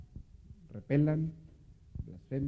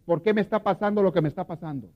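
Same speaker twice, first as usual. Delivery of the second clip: loud, pleading cry to God, higher; desperate prayer; 5 semitones higher, 11 dB louder than usual. Retold or imitated. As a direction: plead with God, voice raised in anguish. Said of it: "La persona que le dice al Señor". (súplica desesperada a Dios, en voz alta)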